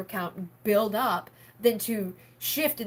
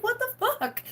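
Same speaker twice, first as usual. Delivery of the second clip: incredulous outburst; 14 semitones higher than usual. Retold or imitated. Incredulous retold reaction.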